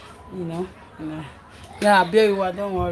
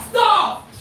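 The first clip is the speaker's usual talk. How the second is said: much higher yell broken by a laugh; 13 semitones higher, 5 dB louder than usual. Real, not acted. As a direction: shout stop half laughing. Mother yelling at kids.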